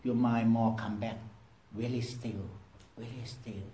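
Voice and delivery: low, soft, fading almost to nothing; quiet voice. Shown as a demonstration. Meditation teacher guiding the mind back to stillness, low fading voice. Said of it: "listen to quiet voice".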